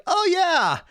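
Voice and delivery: imitating wife. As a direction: pitch up to mimic a wife explaining. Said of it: "my wife is always like".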